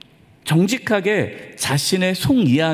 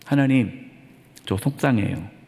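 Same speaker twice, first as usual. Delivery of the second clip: softer and lower, a small hurt prayer; hurt confession; 7 semitones lower, 4 dB quieter than usual. Retold or imitated. Pastor voices a believer telling God he is hurt, quiet and low. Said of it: "하나님 앞에 그거를 고백하라는 거예요".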